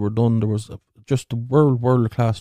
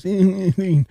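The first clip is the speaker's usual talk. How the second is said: high strangled call; 9 semitones higher than usual. Acted. Fella trying to call bus.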